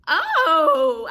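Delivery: a sudden loud, high yelp of pain; pained cry. Retold or imitated. Mother stitched without numbing, crying out in pain. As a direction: cry out as the needle goes in.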